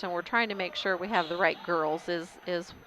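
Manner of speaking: stumbling and stuttering over the words. Real, not acted. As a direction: stutter and repeat, as if unsure of names. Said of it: "why I'm kinda stuttering every once in a while".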